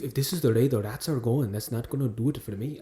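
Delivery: lightly imitated Irish line; attempted Irish accent. Trying to copy co-host's Titanic line, soft Irish accent.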